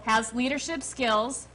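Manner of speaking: slow, careful "Has leadership skills"; dictating. Shown as a demonstration. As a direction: read "Has leadership skills" slowly back. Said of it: "You say it and I'll repeat it".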